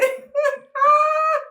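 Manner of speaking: long high-pitched laugh. Real, not acted. Laughs at the end.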